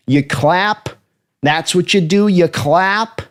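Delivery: lightly voiced coach needling a quarterback; Gruden mocking. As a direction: scoff at the rookie's snap count. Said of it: "Him giving Jackson Darnell about the snap count".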